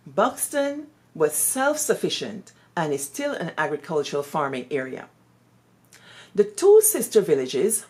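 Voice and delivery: measured public reading of a letter; reading a letter aloud. Acted. Teacher reading a late headmistress's letter to Buxton villagers, measured reading. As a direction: read it out so listeners ponder each line. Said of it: "I'm gonna try to read this in a, in a way that you can ponder on her words".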